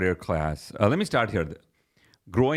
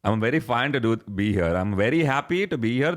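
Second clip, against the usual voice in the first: put-on light Indian accent, gently lilting. Correcting his friend, mild Indian accent. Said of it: "This is the right Indian accent".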